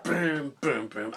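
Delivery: vocalized drum hits, dropping in pitch; imitated rock riff. Reviewer mimicking the song's backing after singing it, vocal booms. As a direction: punch out the booms like a band.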